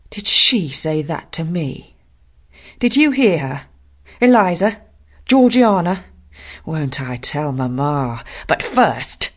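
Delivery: indignant tattletale calling out; outraged boy. Acted. John outraged, calling his sisters.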